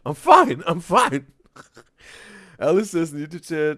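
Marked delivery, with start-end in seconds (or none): 0.1-1.2 loud, high mock protest; high-pitched jeering imitation; mocking echo. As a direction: shout it mockingly, imitating someone upset. Streamer mockingly echoes the upset man.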